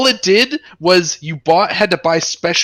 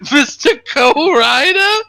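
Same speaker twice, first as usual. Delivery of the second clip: high, slow mock-baffled cry; imitated confused yell; 10 semitones higher, 4 dB louder, slower than usual. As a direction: replay the friend's bewildered shout. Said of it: "Swissy's voice as he yelled".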